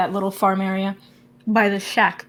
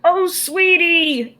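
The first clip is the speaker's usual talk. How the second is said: high, loud, drawn-out call; 7 semitones higher, 6 dB louder, much slower than usual. Acted. Grandma super mutant spots Orion from down the farm, calling out. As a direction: coo it out loudly and high from afar. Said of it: "the voice calls out".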